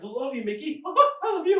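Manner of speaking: high, loud lovestruck fan squeal; adoring scream. Acted. Drunk fan bear-hugging Mickey, adoring scream. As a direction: scream your love, pitched well up. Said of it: "you hear the screaming".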